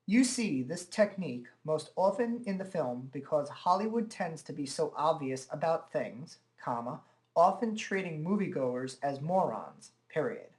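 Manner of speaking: measured dictation read, punctuation spoken as words; newscaster-style dictation. Shown as a demonstration. Presenter reading from a book to dictation software, carefully enunciated. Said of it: "newscaster or somebody on television would".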